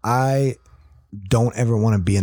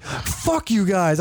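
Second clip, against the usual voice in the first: mock offended, laughing; 7 semitones higher, much slower than usual. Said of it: "I was like".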